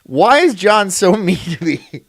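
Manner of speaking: laughing through a mock whine. Shown as a demonstration. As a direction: giggle while whining. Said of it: "You have me fucking saying it now".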